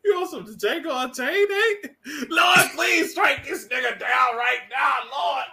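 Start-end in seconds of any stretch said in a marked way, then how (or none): 2.3-5.4 mock church plea, drawn out; mock prayer. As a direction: call down judgment like a preacher, hammed up.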